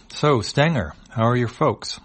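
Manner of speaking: high, lightly voiced alien asking after family; horned alien voice.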